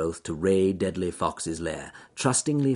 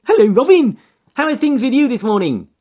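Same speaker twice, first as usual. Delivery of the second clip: high, loud cheerful bunny; cheerful rabbit voice; 11 dB louder than usual. Acted. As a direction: call up brightly to the trees. Rabbit calls to birds.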